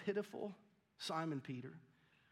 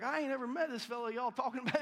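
high, loud country-bumpkin denial; country accent; 8 semitones higher, 6 dB louder, faster than usual. Acted. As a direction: play Peter as a protesting country bumpkin. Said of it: "Maybe he had a country accent".

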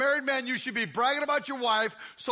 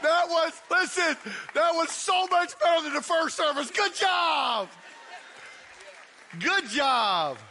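excited shout; 6 semitones higher, slower than usual. Real, not acted. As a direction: shout the praise. Praising loud crowd after bragging.

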